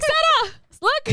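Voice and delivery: high, eager call to a daughter; excited mom calling. Retold or imitated. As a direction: imitate mom wanting her to look. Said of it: "She's like".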